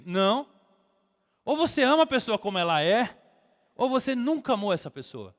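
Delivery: high, forceful sermon delivery; full-force preaching. Real, not acted. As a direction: drive each point home to the congregation.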